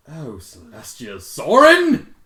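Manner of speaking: a dramatic groan of an oath; loud exclamation. Real, not acted. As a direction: wail it out in mock despair. Reader mock exclaiming in dismay.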